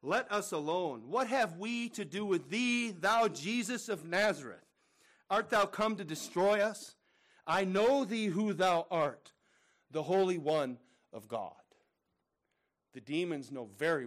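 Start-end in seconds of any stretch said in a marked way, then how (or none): 0.0-11.5 slow, loud, raised demon cry; hammed-up demon pleading with Jesus. A narrator's reading. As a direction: drag out the unclean spirit's protest. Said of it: "cried out, saying".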